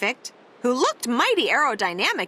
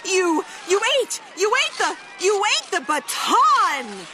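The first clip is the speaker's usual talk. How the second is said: wailing; 6 semitones higher than usual. Acted. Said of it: "His companions wailed".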